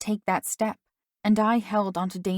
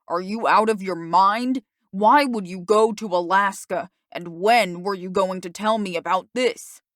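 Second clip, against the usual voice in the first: angry father; 5 dB louder than usual. Acted. Father angrily questions daughter.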